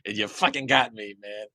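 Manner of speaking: high, loud hammed-up cry of being found; God caught hiding. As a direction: cry out high, then ease down as the caught culprit. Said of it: "and there he's like".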